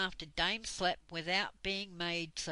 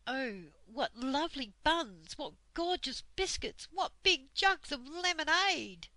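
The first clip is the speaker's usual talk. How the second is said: high, eager gasps of delight; delighted children; 7 semitones higher, 4 dB louder than usual. A narrator's reading. Children spotting buns and lemonade at the table, thrilled. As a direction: squeal at the treats like hungry kids.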